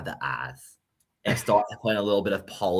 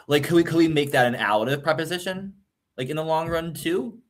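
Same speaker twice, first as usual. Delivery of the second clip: excited; 7 semitones higher than usual. Real, not acted. Excited linguistic brainstorming.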